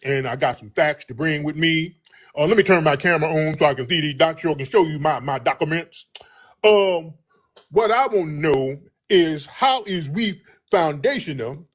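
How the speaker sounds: a hint of a smug, needling know-it-all caller voice; mocking a passive-aggressive caller. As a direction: lightly imitate the hostile caller who wants to debate. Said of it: "popped up with that weird passive aggressive hostility".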